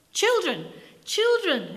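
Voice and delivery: high, loud call to order; exclaiming. Acted. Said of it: "exclaimed the vicar".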